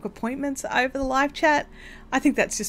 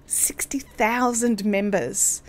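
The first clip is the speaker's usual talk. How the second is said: whisper; 2 semitones lower, 4 dB quieter, slower than usual. Real, not acted. Awed aside about group size.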